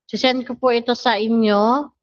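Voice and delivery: ordinary talk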